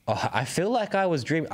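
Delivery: put-on faint, amateur New Zealand accent; attempted Kiwi accent. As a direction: have an unsure go at Kiwi. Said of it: "I gotta do the Kiwi accent".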